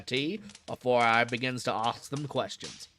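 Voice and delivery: put-on "ask them questions" in the keeper's Cockney accent; Cockney keeper rolling out "ask them questions". Keeper explaining his methods, Cockney accent. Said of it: "This guy is such an accent".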